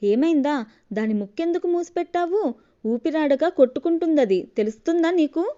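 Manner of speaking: high, loud furious yelling; angry shout. Acted. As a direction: scold the careless wife at full voice. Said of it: "అని గట్టిగా అరిచాడు పవన్". (గట్టిగా కోపంగా అరవడం)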